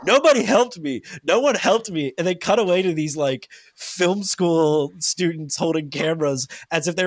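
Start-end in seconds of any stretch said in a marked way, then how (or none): 0.1-2.1 high loud self-pitying whine; whining Joe imitation. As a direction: whine like the victim of it all. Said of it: "and he's like".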